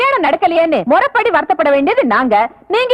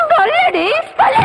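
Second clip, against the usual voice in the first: higher, snapping "சொல்லுடி"; angry demand; 9 semitones higher than usual. Acted. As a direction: demand the answer. Stepmother demands answer.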